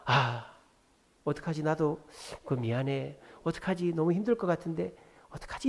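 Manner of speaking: soft, apologetic helplessness; sympathetic regret. Shown as a demonstration. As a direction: fret gently without offering to do it. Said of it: "그 사람에게 공감해 주세요".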